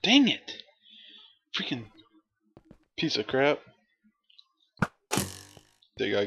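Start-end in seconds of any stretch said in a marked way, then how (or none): 0.0-3.6 frustrated outburst. Real, not acted. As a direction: blurt it out at the screen. Frustrated gamer after dying.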